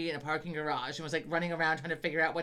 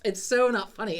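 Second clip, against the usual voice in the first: laughing; 5 semitones higher, 9 dB louder than usual. Real, not acted. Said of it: "the laughter tick".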